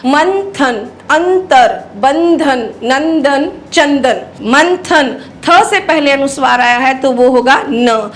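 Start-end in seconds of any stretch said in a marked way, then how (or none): 0.1-5.2 मंथन, अंतर, बंधन with a clear dental n before the consonant; teacher's word list, clear n in मंथन, अंतर, चंदन. Shown as a demonstration. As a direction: sound the n fully in नंदन and चंदन. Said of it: "इसमें अनुस्वार है न".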